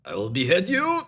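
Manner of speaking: put-on Arab accent, rising to a threat; mock Arab sheikh. Sheikh correcting then threatening his friend, mock Arab accent. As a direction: play a comic Arab sheikh taking offence. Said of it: "Sheikh, not Jake, stupid".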